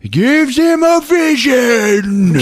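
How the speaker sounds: very high, slow, laughing. Real, not acted. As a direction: squeal it with laughter.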